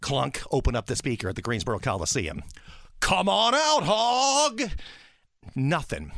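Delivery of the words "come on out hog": loud, higher PA call; announcer call. Retold or imitated. Announcer summons the mascot over the PA, loud and higher. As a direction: call the hog out over the speakers. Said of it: "these infamous words came out of my mouth".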